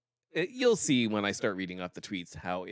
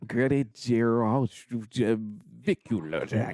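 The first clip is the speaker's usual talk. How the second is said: laughing; much slower than usual. Pretend. Mock mangled surname, laughing.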